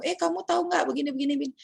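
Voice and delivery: quick, high, chatty friend voice; casual gossip with a friend. Retold or imitated. Student chatting with a friend, quick casual high voice. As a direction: rattle it off like gossiping with a mate.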